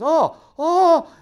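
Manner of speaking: high, loud laughing cries. Retold or imitated. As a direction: crack up mid-mischief. Bill laughing at the mess.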